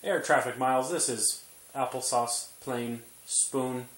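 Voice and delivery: playful air traffic call; radio chatter to the tower; pilot radio voice. Pretend. Pilot radio talk to baby.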